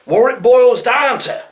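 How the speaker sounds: high, loud mocking repeat; mocking cliché. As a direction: parrot the cliché. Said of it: "are they boiling something".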